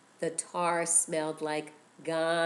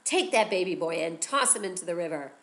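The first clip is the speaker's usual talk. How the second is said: soldiers' command; 3 dB louder than usual. Acted. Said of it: "They'd say".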